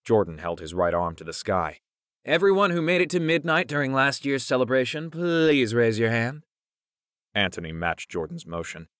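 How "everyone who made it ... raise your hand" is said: high, projected announcement, stretching the please; announcing. A narrator's reading. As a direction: address the room like an announcer. Mock announcement to the friends.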